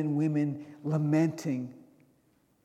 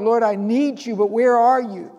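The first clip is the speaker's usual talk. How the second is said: crying out; 4 semitones higher, 8 dB louder than usual. Acted. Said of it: "This is him crying out to the Lord".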